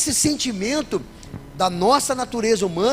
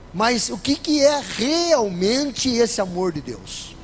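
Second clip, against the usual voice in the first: slow rhetorical question; much slower than usual. Acted.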